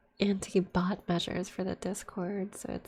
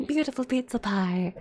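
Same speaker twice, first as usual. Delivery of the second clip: mock Italian; 3 semitones higher, 6 dB louder than usual. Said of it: "the Italian fucking kiss my fingers".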